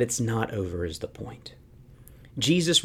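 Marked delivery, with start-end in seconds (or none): 0.0-1.5 soft, breathy whisper of the key point; whispered aside. Real, not acted. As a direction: drop to a whisper to drive it home. Sermon point dropped to whisper.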